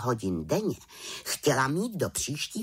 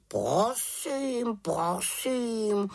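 high, huffy raven voice; offended raven; 10 semitones higher, much slower than usual. Acted. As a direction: sound offended and stiff. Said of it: "urazil se Abraxas". (uražený havran)

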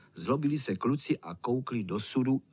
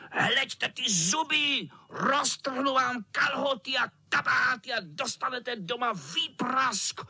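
snarling cat; 9 semitones higher than usual. Acted. Cat threatening with teeth.

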